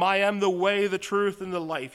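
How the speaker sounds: preacher quoting Jesus to the congregation, loud; proclaimed verse. Shown as a demonstration. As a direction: ring out "I am the way, the truth, and the life". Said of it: "verse proclaimed aloud".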